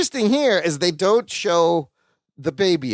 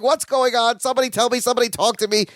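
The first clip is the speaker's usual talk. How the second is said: higher-pitched pretend panic; mock freaking out; 5 semitones higher, faster than usual. Driver in the dark about the birth, mock freak-out. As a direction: imitate someone mildly frantic for answers. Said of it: "Larry's freaking out".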